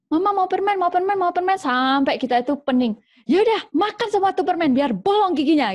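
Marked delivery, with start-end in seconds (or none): 0.1-1.6 put-on much higher, whiny kid nagging; nagging child. Child nagging mama for candy, whiny. 3.3-5.7 much higher, fed-up daring mom; challenging mother. Acted. Mother daring her nagging child to eat all the candy, fed-up. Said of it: "Nantang gitu ya".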